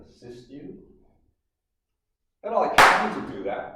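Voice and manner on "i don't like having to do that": mock reluctant threat. Teasing offer to assist students.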